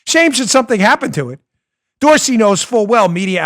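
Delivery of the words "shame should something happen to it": mobster voice. Retold or imitated. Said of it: "sounded like every mob enforcer".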